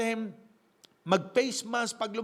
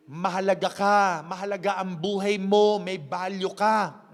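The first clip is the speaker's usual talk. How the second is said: affirming words; 2 semitones lower, 4 dB louder than usual. Pretend. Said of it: "Sabihin nyo".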